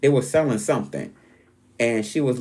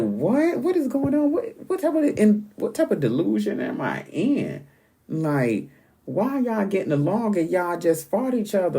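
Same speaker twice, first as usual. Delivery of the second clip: high-pitched, baffled outburst; incredulous; 9 semitones higher than usual. Retold or imitated. Dreamer confronting housemates who just fought, incredulous. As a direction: question it in disbelief, voice shooting way up. Acts out disbelief at the reconciliation.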